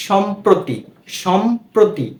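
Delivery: সম্প্রতি split as সম-প্রতি; র-ফলা fully sounded. Shown as a demonstration. Teacher showing the rule, সম্প্রতি with its প্র fully sounded. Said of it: "এর উচ্চারণটা কিন্তু হচ্ছে".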